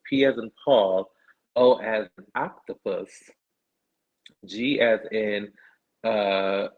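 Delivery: polite customer-service read; guest services voice. Shown as a demonstration. Reading a promo code in a guest services voice. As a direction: spell it out like a helpful phone agent. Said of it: "Let me put on my, my guest services voice".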